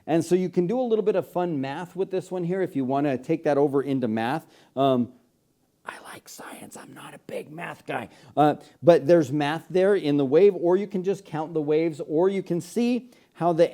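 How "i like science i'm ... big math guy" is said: hushed, confiding whisper; whispered aside. Pretend. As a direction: whisper it like a secret admission. Whispered confiding aside about math.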